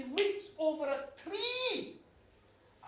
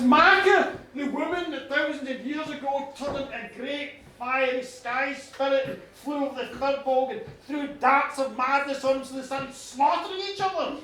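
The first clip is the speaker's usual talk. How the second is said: astonished outburst, loud at the start; incredulous recital; 4 dB louder than usual. Acted. Farmer checking she is the legendary Maka, incredulous. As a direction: burst out on the name, then rattle on.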